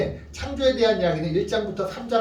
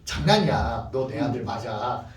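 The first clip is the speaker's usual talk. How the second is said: low, soft parental voice; imitated soothing parent; parent reassuring; 7 semitones lower, 3 dB quieter than usual. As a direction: gently reassure a crying child, slowing down. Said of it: "그때 부모님이".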